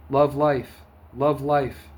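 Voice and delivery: loud, high cry of love life; retold scream. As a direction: call it out as if screaming down the street. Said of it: "screaming at the top of my lungs".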